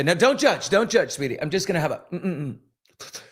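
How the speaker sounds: a hint of a doting old aunt sneaking a smoke; Aunt Nancy. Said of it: "she'd say".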